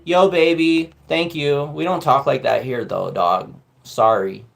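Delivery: playing tough guy correcting mom. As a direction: drop the voice low and cool, tease her. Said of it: "And I said".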